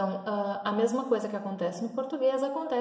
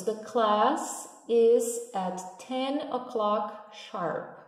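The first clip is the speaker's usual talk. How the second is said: slow model sentence; much slower than usual. Shown as a demonstration. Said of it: "Aqui a gente tem dois casos".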